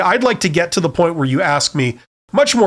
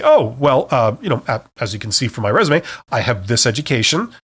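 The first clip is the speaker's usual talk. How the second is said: benign; 4 semitones lower than usual. Shown as a demonstration. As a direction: keep it light and harmless. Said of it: "like, a very benign way".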